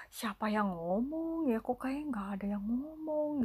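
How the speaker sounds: half-whispered mock puzzlement; puzzled self-talk. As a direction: imitate wondering aloud to oneself, part whispered. Father puzzled by unseen voice. (tiruan bergumam heran, setengah berbisik)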